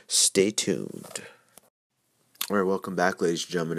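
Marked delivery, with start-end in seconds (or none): 2.5-3.8 upbeat host welcome. Acted. Host welcoming listeners back.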